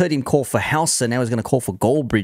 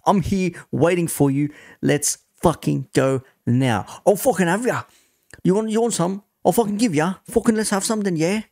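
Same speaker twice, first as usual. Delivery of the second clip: higher-pitched mock aggressive taunt; imitating a threat; 5 semitones higher than usual. Retelling the fan's threat to the players, higher mock aggressive. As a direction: spit out a mock car-park challenge. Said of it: "literally saying to them".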